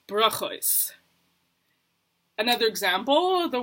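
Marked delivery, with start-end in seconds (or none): 0.1-0.9 slow Ashkenazi "brachos" ending in an S; Ashkenazi pronunciation. Retold or imitated. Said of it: "My Ashkenazi friend would say".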